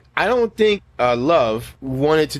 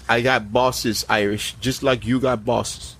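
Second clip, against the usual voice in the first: put-on Somali pirate accent; 3 semitones lower than usual. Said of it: "Captain Phillips?".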